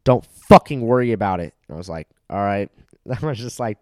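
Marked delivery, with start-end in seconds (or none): 0.0-1.5 mock tough guy. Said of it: "the guy went like this".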